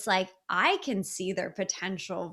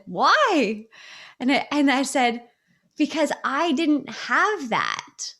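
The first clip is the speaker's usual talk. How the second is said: choked up; 3 semitones higher, 4 dB louder than usual. Real, not acted. Telling the coach her why, close to tears. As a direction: voice rising and breaking with emotion, louder. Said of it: "I'm about to cry right now".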